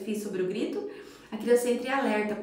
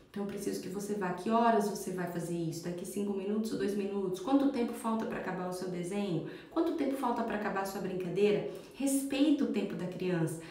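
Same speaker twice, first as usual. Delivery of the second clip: ordinary talk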